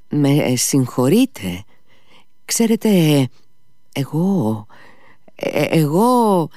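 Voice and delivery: halting, slow, stammering nobleman; flustered Mitya. Acted. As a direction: fumble for the words, unsure.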